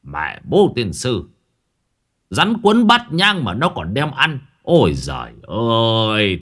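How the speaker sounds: put-on old man's exasperated scolding; hot-tempered anger. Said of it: "nóng đỏ mặt". (mắng mỏ bực tức)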